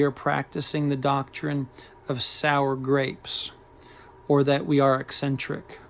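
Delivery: measured, emphatic reading with pauses between phrases; liner note read aloud. Acted. Collector reading a band's note to viewers, formal read-aloud.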